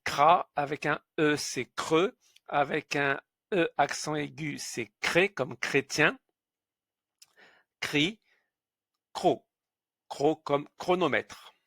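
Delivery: cra creux cré cri cro with a hard k sound; chr as kr. Shown as a demonstration. Teacher showing that chr sounds like kr. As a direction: read out the chr syllables as kr. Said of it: "c'est le son creux".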